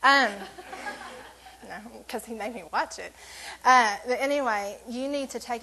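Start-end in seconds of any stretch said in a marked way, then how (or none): 0.3-1.6 soft airy laugh, no voice; a quiet breathy chuckle; breathless laugh. Real, not acted. Preacher laughing that Chris made her watch it, soft and airy.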